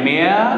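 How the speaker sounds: "mare" said as mea, without the R; silent final R. Shown as a demonstration. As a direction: finish "mare" on an open vowel, R silent. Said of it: "আমরা আর উচ্চারণ করবো না". ("mare" শব্দের শেষে র অনুচ্চারিত)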